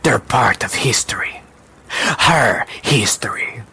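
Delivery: slow, breathy, understated menace; menacing woman. Acted. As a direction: let the words out slowly as a veiled threat.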